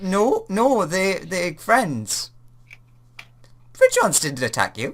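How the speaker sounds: bewildered, baffled, puzzled, with swooping confused pitch. Responding to a worry about being attacked, a character sounds super confused. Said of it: "He's like super confused by that".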